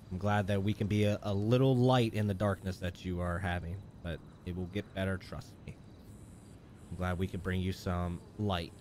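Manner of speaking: soft, low, sincere comfort; tender and hushed encouragement; gentle reassurance. Real, not acted. Comforting a viewer going through dark times.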